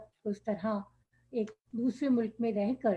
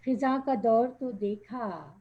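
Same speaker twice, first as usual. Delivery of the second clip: measured verse delivery, lilting down each line; poetry recitation; 2 semitones higher than usual. Acted. Poet repeating her opening line to the audience, reciting. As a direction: recite the couplet for an appreciative gathering.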